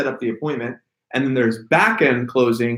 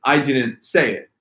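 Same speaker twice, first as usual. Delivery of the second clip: slow, with weight on "I"; emphasize "I" as the one who didn't; stress on I. Shown as a demonstration. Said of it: "what's the meaning of that sentence".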